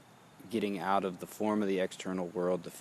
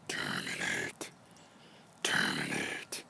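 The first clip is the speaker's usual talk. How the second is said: low terminate; 14 semitones lower, 4 dB quieter than usual. Shown as a demonstration. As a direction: sink deep on "Terminate". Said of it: "Terminate, create".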